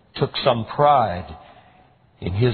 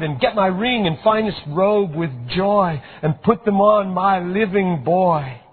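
excited servant; 9 semitones higher than usual. A narrator's reading. Servant excitedly reports feast.

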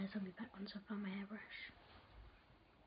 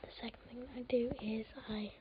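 hushed morning whisper. Real, not acted. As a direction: keep it to a whisper. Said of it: "I'm trying to be quiet".

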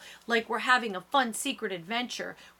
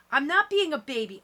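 high, louder indignant protest; shouting; 6 semitones higher, 5 dB louder than usual. A narrator's reading. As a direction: shout back in a contained narrator's voice. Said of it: "I shout".

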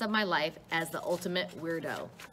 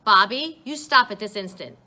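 loud, panicked command, pitched up; 3 semitones higher, 10 dB louder than usual. A narrator's reading. Mother calling for her vanished son in panic. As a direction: call out for a son you can't see. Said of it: "Now she's panicked".

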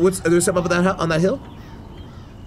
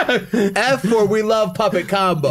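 slow laughing high shoutout; 6 semitones higher, much slower than usual. Real, not acted. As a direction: laugh while drawling it.

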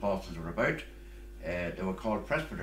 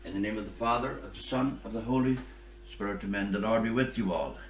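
recited opening blessing of a Mass; liturgical blessing; 2 semitones higher, 3 dB louder than usual. Acted. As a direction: open the service as a priest. Priest intones opening blessing.

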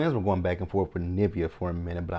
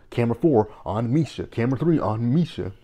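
mocking the twins; 4 semitones higher, 6 dB louder than usual.

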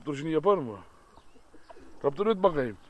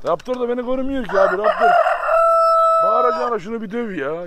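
sitemli seslenme; 5 semitones higher, 9 dB louder than usual. Real, not acted.

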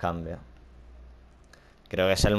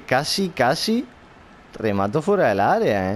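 rising excitement; 3 semitones higher, 4 dB louder than usual. Real, not acted. Almost scores, rising.

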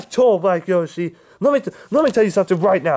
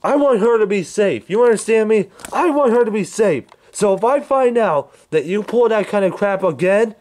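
furious; 7 semitones higher than usual. Acted. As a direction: lay into him in rage. Threatening, yelling at Black Yoshi.

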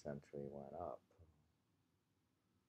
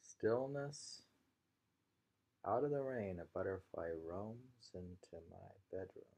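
poem reading; 3 semitones higher than usual. Acted. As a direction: let each image hang before the next. Teacher rereads haiku.

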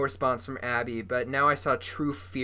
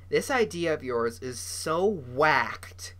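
whisper; slower than usual. Acted. Shelley speaking with ice pack.

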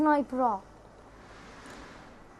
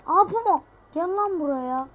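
excited call; 4 semitones higher, 3 dB louder than usual. Real, not acted. Spots the puma, calls it over.

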